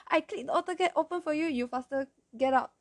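fast, high imitation of grandfather hurrying someone; urging grandfather. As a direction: rush out instructions as a worried grandfather. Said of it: "my grandfather was like".

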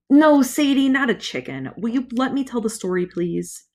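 exasperated aside to a heckler; annoyed aside. Acted. Carter to interrupting Sadie, exasperated aside. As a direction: brush off the interruption, irritated. Narrator snaps at interrupting sister.

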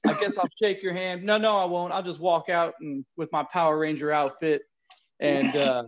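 put-on wrestling promo in a New York accent. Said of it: "do a promo in a New York accent".

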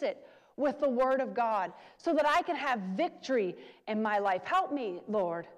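a preacher voicing a humble personal prayer to the Lord; modeled prayer. Shown as a demonstration. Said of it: "and we say".

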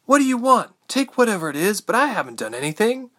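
high, loud pleading shout, easing off; desperate shouting. A narrator's reading. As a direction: shout your innocence at the attackers. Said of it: "she found herself shouting".

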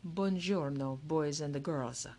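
lightly timid, slow greeting; a hint of a bashful Italian showman. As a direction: hold back, almost shy, and take it slow. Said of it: "He spoke very timidly, very slowly".

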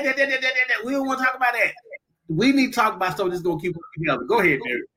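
ordinary talk

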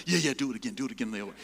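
loud start, easing off; excited egging-on. Retold or imitated. Pilots getting excited and urging the young passenger, mock excitement. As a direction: play pilots eagerly urging him on. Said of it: "now they're getting excited".

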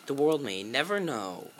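lightly voiced commercial tagline, drawn out; commercial narrator. Quoting a candy commercial to friends, narrator imitation. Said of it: "that one commercial about the".

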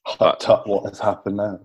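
put-on low murmured Dutch granny accent; Dutch grandmother accent. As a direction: hush it like an old Dutch granny scolding. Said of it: "actually put the accent".

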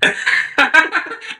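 high burst of real laughter; laughing at his stoned friend's upside-down burger. Real, not acted. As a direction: crack up at the story.

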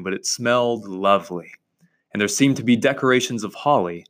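measured storybook reading, lightly lifted from lecture talk; story narration. A narrator's reading. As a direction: read the story aloud at an even pace. Reads the story aloud.

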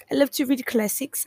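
"I love to read classics" slipping into an unplanned accent; stray accent. Real, not acted. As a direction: let a sudden foreign-sounding accent creep in on "classics". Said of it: "I don't know where that accent came from".

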